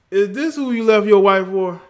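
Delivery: mock outrage at a friend; loud teasing jab. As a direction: shout the accusation across the room. Repeats the jab louder.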